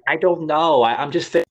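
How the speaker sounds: put-on high, airy Jersey Italian-American girl; Jersey Italian accent. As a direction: mimic a clueless Jersey Shore Italian-American voice. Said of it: "that's how she talked, that Italian accent".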